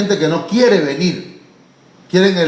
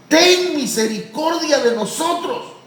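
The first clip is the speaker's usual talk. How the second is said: higher, slow pleading cry; 10 semitones higher than usual. Acted. Preacher voicing the blind men begging Jesus, pleading cry. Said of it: "empezaron a clamar y a decir".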